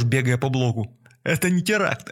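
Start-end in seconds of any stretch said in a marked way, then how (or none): 1.2-2.1 high desperate denial; frantic yelling. A narrator's reading. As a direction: yell it in panic. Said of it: "вопил бомж".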